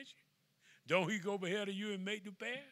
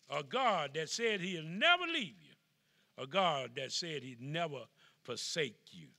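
preaching at full force. Acted. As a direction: drive the promise home.

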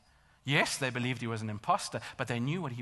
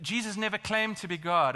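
raised, louder imitation of a challenger; higher, insistent quoted claim; retold challenge; 5 semitones higher, 6 dB louder than usual. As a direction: assert it firmly, as an objector would. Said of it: "they've challenged me".

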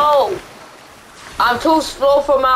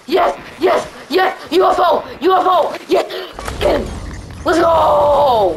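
hype cheering; 3 semitones higher than usual. Real, not acted. Cheering victory.

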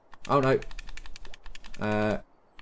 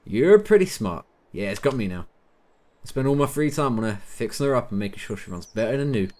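loosely imitated American accent; car lover in a put-on American accent. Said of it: "gone into some sort of weird American accent with him".

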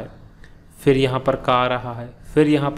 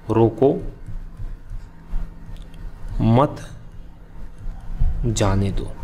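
long pauses after "रोको" and after "मत"; word-by-word delivery; slower than usual. Shown as a demonstration. Teacher spelling out an example for students, word by word with long pauses. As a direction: say "रोको", "मत", "जाने दो" as three separate pieces. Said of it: "किसी चीज़ को कैसे बोला जाता है".

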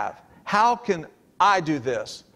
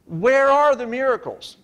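much higher, pleading demand; raised-pitch demanding Gideon; demanding cry; 7 semitones higher than usual. Acted. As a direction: cry out for the miracles.

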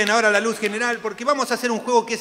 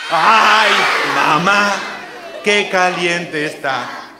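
loud mock yell of pain, pitched up at the start; playful shout; 7 dB louder, much slower than usual. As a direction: holler it like a burnt seat. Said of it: "empezó a gritar". (grito fuerte de juego)

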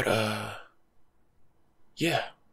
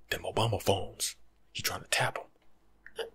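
mock conspiracy whisper; slower than usual. Retelling a conspiracy guy.

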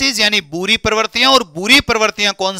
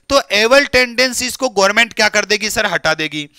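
normal talking voice

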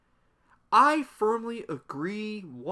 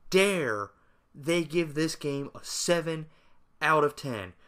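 sarcastic outrage. Pretend. Gamer mocking fanboys over a review score, sarcastic outrage. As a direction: play scandalized, hammed-up and heavily sarcastic. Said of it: "the insane amount of sarcasm".

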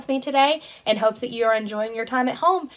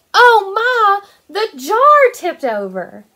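surprised exclamation; 8 semitones higher, 8 dB louder, much slower than usual. Acted. Paint jar spills in story.

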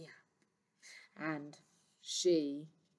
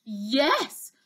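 crying out; 4 semitones higher, 4 dB louder than usual. Acted. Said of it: "cried the queen".

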